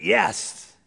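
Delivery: a happy, lightly acted exclamation of approval; Holy Spirit says yes. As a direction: cheer the yes like joyful agreement. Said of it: "and the Holy Spirit goes".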